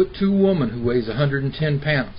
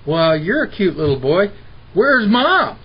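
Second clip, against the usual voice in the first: sweet singsong rising to a high loud "Mom?"; sugar-coat the boy, then jab the question; mock sugary nurse; 4 semitones higher, 5 dB louder than usual. Dad imitating the nurse who asks where mom is, sugary.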